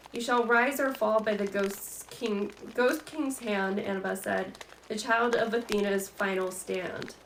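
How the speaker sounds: slow, solemn recitation; reciting a prophecy. Acted. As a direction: intone it slowly like an oracle's words.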